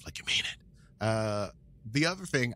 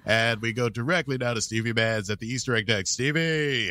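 booming newsreader opening a broadcast; mock news anchor; 3 dB louder than usual. The host opens the spoof podcast news show as a newsreader. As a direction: announce it like a cable news host. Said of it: "Set Phasers News Network".

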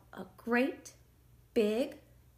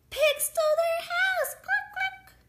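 very high, loud chicken voice; squawking chicken; 8 dB louder than usual. A narrator's reading. Chickens lose their coop to pigs, squawking. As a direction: squawk it like an alarmed hen.

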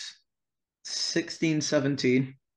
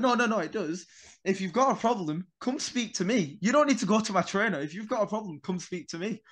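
higher-pitched, insistent retort; retold confrontation; 6 semitones higher than usual. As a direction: re-enact standing up to someone, mildly heated.

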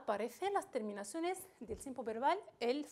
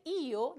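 io said loud and drawn out; accented ending; 5 dB louder than usual. Shown as a demonstration. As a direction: punch out the ending io. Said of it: "la i lleva acento".

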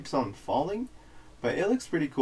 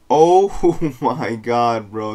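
frat bro; 10 dB louder, much slower than usual. Real, not acted. Reacting to full art pull.

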